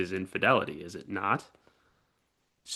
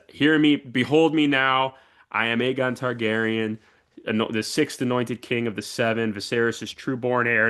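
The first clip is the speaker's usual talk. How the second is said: royal proclamation. Retold or imitated. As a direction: announce yourself like a king, lightly. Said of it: "And he says".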